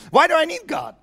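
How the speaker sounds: a hint of proud scoffing; mocking skeptic voice. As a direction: toss it off like someone who thinks they need nobody. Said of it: "That's what a lot of people say".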